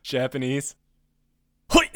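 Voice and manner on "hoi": sharp shout. Pretend. Teasing attempt at Japanese accent.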